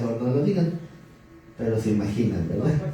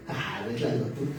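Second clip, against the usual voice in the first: réplica burlona; 5 semitones lower, 9 dB quieter than usual. Pretend. Respuesta burlona de Dios.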